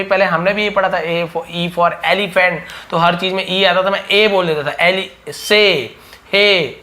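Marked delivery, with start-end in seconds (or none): 5.3-6.8 "से, हे" with "ay" instead of "ee"; drawn-out misreading "से, हे" ending in "ay"; former mispronunciation. Retold or imitated. Teacher recalling own beginner mistake, "से, हे" with "ay". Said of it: "ऐसे कर देता था".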